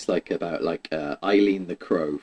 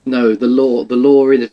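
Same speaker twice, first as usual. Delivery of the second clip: "lore" punched louder and higher; stress on lore; 4 semitones higher, 8 dB louder than usual. Shown as a demonstration. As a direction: hit the word "lore" hard to correct him. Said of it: "the real world lore".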